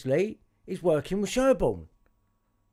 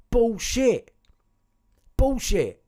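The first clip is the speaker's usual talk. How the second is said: a louder, dismissive retort; scornful outburst; 5 semitones higher, 5 dB louder, much slower than usual. Real, not acted. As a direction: throw it back with contempt. Rejecting the advice in the letter.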